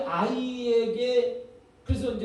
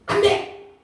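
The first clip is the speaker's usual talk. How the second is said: higher, louder breathy no; mock mother's shout; 10 semitones higher, 7 dB louder, much slower than usual. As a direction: bark it like a startled mom. Mother stops child stirring food.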